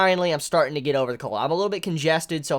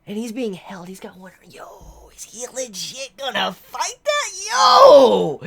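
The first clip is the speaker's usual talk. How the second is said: rising to a loud amazed "Yo!"; excited shout; 6 semitones higher, 7 dB louder, slower than usual. Real, not acted. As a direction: yell it out like you can't believe it. Reacting to fight scene in disbelief.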